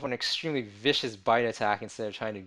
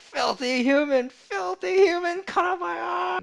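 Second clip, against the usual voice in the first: high, slow, shouting ghoul snarl; 9 dB louder than usual. Acted. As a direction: spit it out like a furious ghoul. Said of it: "They can talk".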